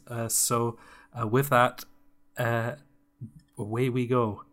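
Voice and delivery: lightly voiced calm YouTube narrator; Matthew Matosis. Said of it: "can you do a quick Matthew Matosis?".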